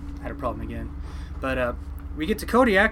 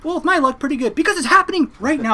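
higher, louder, laughing through it; exasperated laugh; 13 semitones higher, 8 dB louder than usual. Retold or imitated. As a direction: joke bitterly at your bad luck. Sarcastic reply to mom.

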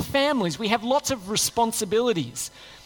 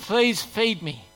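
slow mock plea; much slower than usual. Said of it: "and go".

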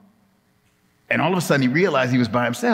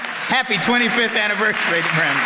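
higher-pitched group cheer; leading the congregation; 6 semitones higher than usual. Real, not acted. Preacher getting the congregation to greet Brenda, chanted in chorus. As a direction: lead everyone in a raised-pitch congratulation. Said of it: "Can you all say that to Brenda?".

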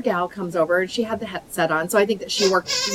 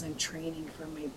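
tired mumble; 6 semitones lower, 21 dB quieter than usual. Retold or imitated. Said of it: "she goes".

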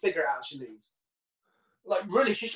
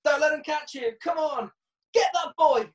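higher, stilted voiceover line read; a hint of a creepy dubbed park lady; badly dubbed old woman; 8 semitones higher than usual. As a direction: mimic a clumsy dub of an old lady. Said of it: "So this is really badly dubbed up".

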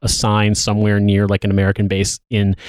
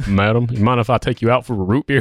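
courting GI voice. Pretend. Playing a wartime GI courting.

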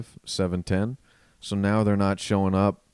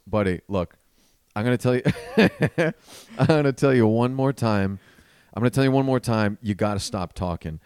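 East Coast tough guy; faster than usual. Retold or imitated. Comic on stage warns the chatty heckler, firm East Coast delivery. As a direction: lay down the law like a blunt East Coast guy. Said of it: "being East Coast Christopher".

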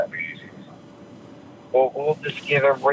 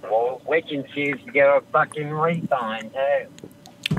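bad British accent; 3 semitones higher than usual. Caller mimicking the agent who refused a refund, bad British accent. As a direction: throw back a poorly faked British accent. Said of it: "you do a really bad British accent".

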